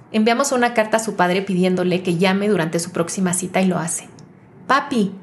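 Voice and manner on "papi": lightly voiced young girl, adoring; a touch of a little girl calling her daddy; young sweet voice. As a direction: daughter lightly voiced greeting her father. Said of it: "su voz brilla con devoción".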